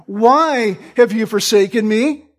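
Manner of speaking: "have" pushed up and rising, me unstressed; wrong stress on HAVE. Shown as a demonstration. Preacher showing the wrong reading, stress on "have". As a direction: lean on "have" not "me". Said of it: "the emphasis isn't".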